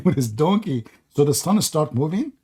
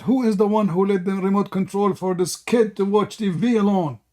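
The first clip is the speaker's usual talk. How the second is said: retold angry dad; 5 semitones higher than usual. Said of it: "and he shout".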